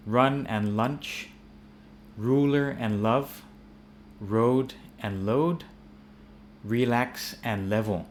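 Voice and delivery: slow, deliberate minimal pairs; careful R and L contrast. Shown as a demonstration. Teacher models the word pairs slowly for learners. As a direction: run and lunch, road and load said slowly, the R and the L kept apart. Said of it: "if you mix the R and L up".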